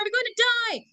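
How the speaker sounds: mock wail, climbing very high; screaming mother. Shown as a demonstration. Teacher acting a mother who fears drowning, melodramatic wail. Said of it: "the mother is screaming at this point".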